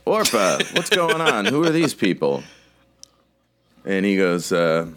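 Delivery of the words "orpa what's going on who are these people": higher-pitched questioning dude; put-on dude, pitched up; startled dude. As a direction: voice a dude demanding to know what's going on. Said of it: "the dude comes up out of the chair and he says".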